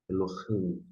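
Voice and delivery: careful "Elohim", the h rasped; Hebrew pronunciation demo. Shown as a demonstration. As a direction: say "Elohim" with a throaty h. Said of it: "Algumas pessoas pronunciam o re".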